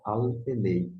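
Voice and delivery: "al penei" said carefully, ending on NEI; preferred pronunciation. Shown as a demonstration. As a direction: model "al penei" with a clear final ei. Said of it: "Eu falo".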